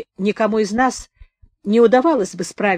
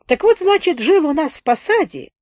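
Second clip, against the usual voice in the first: thin-faced wounded storyteller; 2 semitones higher than usual. Acted. Narrator voices Сухолицый telling his tale.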